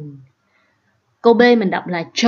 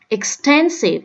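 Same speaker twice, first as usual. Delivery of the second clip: "Extensive" raised on TEN; second-syllable stress; 5 semitones higher, slower than usual. Shown as a demonstration. Teacher repeating the odd word out, second-syllable stress. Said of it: "nhấn vô âm thứ hai".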